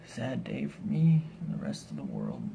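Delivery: ordinary talk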